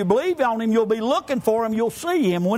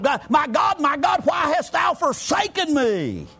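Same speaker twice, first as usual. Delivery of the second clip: mild crying out; 3 semitones higher than usual. Retold or imitated. Preacher quoting Jesus to the Father from the cross, mild crying out. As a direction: imitate an anguished call without fully shouting. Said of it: "he cried out to the Father from the cross".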